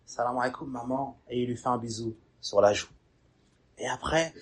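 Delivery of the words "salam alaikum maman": softer greeting. Retold or imitated. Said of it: "il commence à s'éduquer un peu plus".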